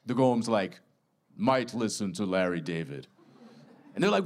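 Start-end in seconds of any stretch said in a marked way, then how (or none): 1.4-3.1 a hint of a stubborn giant conceding; Golem voice. Golem considers the offer.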